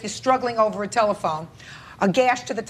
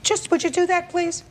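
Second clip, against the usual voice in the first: impatient demand; 9 semitones higher than usual. Real, not acted. Judge demands a demonstration.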